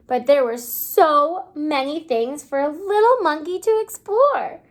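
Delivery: put-on lively read-aloud storybook voice for little kids; reading to children. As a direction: read the picture book to the class, bright and clear. Teacher reads picture book aloud.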